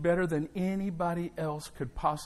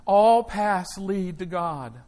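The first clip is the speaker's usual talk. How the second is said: imitating Oprah; much slower than usual. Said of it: "She said".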